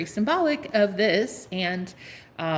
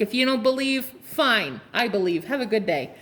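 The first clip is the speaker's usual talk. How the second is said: put-on Teresa Caputo accent, brisk dismissal; lightly put-on Teresa Caputo accent. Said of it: "in my Teresa Caputo accent".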